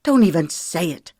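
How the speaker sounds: a sharp spat retort. Acted. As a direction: bite the words off at him. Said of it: "she spat".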